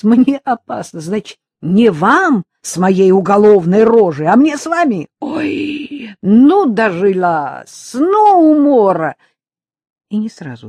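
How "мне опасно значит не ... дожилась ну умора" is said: высоко и громко, как от хохота; веселись до изнеможения, тяни последние слова; искреннее веселье. A narrator's reading. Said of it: "Она искренне веселилась". (потешается во весь голос)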